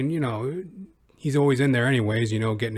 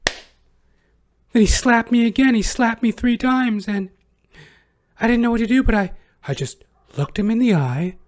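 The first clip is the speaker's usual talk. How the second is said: mock high whine; 10 semitones higher, 3 dB louder than usual. Vlogger parodying her testimony in a high whine.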